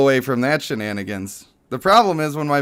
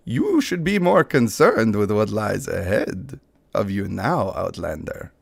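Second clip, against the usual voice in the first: Banderas; 3 semitones lower than usual. Acted. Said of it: "I got a little of the Banderas in there".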